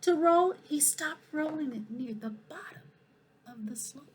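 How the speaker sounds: lively, expressive picture-book reading; animated storytime voice for the whole school; reading to children. Acted. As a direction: read it like storytime for little kids. Principal reads picture book aloud.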